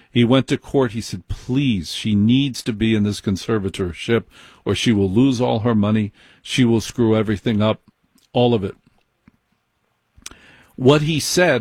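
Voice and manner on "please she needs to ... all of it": usual speaking voice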